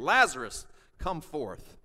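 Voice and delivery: loud commanding call of the name; shout of command. Shown as a demonstration. Pastor re-voicing Jesus summoning Lazarus, loud call. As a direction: call him out of sleep. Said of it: "It's a shout of command".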